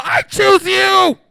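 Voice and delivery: slow, high, loud yell; drawn-out mock battle cry; screaming out. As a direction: holler it like a Pokemon trainer. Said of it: "screaming out".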